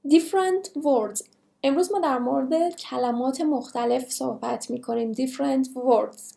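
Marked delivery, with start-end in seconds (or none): 0.1-1.2 very slow and deliberate, falling at the end; slow dictation pace; slow teacher delivery. Shown as a demonstration. 5.1-6.3 very slow and deliberate, falling at the end; slow dictation pace; slow teacher delivery. Shown as a demonstration.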